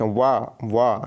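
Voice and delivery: वा drawn out on a long open vowel, said twice; pronunciation demo. Shown as a demonstration. Teacher showing students how to pronounce वा, drawn out. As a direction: sound out वा slowly, each one separate. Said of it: "उच्चारण करके देखिए".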